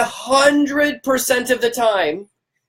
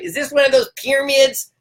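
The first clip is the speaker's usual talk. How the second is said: higher-pitched mock cranky voice; 5 semitones higher than usual. Sceptic asking about pyramids, mock cranky. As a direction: mimic a suspicious sceptic, lightly cranky. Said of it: "cranky voice in their".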